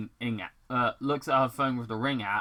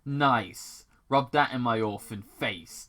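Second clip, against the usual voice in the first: snapped; 4 dB louder than usual. Acted. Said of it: "Doctor Robotnik snapped".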